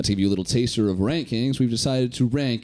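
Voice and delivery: mock sponsor read. Host plugging their own show, mock ad read. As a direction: read it out like a podcast sponsor spot.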